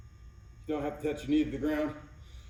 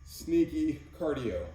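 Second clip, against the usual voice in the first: sneaky cardio; much slower than usual. Retold or imitated. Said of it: "or as my ladies will say it".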